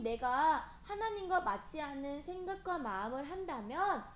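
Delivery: emphatic prayer, slowing at the close; confessional prayer. Shown as a demonstration. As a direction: lead children in an earnest plea to God. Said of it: "고백하는 거예요".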